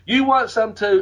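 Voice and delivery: retold yell. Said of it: "Buddy just yelled that out".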